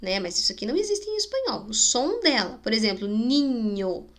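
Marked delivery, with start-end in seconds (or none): 3.1-4.1 "ninho" with a palatal ny in the middle. Shown as a demonstration. Teacher showing the letter's sound, demonstrated pronunciation. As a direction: let the ny of "ninho" ring clearly. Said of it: "tem o som do N H em português".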